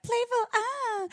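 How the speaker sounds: high, playful flirty sigh; playful sexy voice. Retold or imitated. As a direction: tease it, light and airy. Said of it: "I like Amy's sexy voice".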